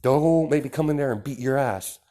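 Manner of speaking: angry threat. Acted. Mother threatening son who cursed at her, loud scolding. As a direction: raise the voice and threaten like a fed-up mom.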